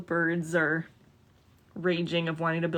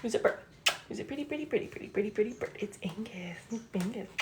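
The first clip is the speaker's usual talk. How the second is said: sing-song parrot talk, trailing softer; teaching a parrot; 3 semitones higher, 4 dB quieter, faster than usual. Real, not acted. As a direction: coax the parrot to repeat.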